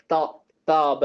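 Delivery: தா and தாப begun on the upper gum; tongue against upper gum. Shown as a demonstration. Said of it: "மேல உள்ள அந்த கம்மோட ஒட்டி".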